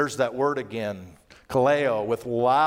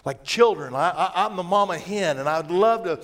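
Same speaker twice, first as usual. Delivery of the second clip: longing lament; 3 semitones higher than usual. Acted. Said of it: "he says".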